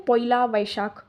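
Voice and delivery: slow, light Bengali accent. Shown as a demonstration. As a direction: say पोइला वैशाख the Bengali way. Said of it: "थोड़ा सा ये आप बंगाली वाला accent आ रहा है इसमें".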